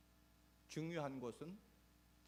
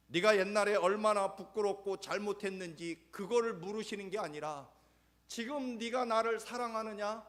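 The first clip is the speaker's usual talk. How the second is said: high, loud pulpit voice; fiery preaching; 10 semitones higher, 14 dB louder than usual. Acted. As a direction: drive the point home to the congregation. Preaching at full force.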